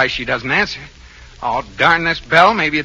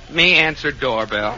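South Sea native; 2 semitones lower than usual. Acted. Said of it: "as a South Sea Island native".

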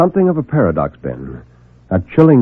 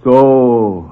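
"So" said flatly, conceding; a grudging, unhurried "So"; slow agreement; 5 dB louder than usual. A narrator's reading. Reporter conceding to Mergenswerker, grudgingly. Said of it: "I agreed slowly".

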